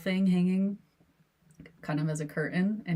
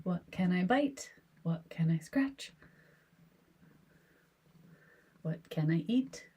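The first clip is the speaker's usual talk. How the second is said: voicing the cat's thoughts; 3 semitones higher than usual. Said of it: "These are the thoughts I think that he has".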